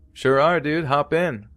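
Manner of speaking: put-on high, upbeat teen voice; cheery reply. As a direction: toss it off bright and high. Teen answering hitchhiker cheerfully.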